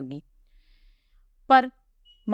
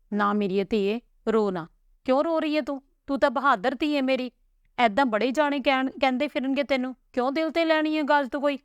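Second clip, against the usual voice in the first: a hint of a gentle father, pitched higher; lightly voiced consoling father; 5 semitones higher than usual. Father comforting his crying daughter, lightly voiced tender consoling. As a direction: soothe her like a loving old father.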